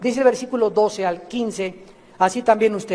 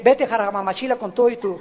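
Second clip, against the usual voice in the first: laughing; 4 dB quieter, faster than usual. Real, not acted. Laughing at own joke.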